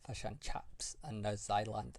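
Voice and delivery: put-on slow, botched Kiwi accent; badly imitated New Zealand accent; New Zealand accent gone Irish. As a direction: attempt New Zealand, slip towards Irish. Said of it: "I went Irish then".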